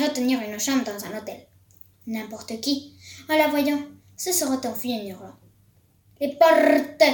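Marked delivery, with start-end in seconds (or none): 6.2-7.0 loud, commanding shout to the hall; bellowing witch. A narrator's reading. Grand High Witch bellowing at her witches about the doors. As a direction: bellow it so it rings through the room. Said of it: "vociféra-t-elle d'une voix qui résonna".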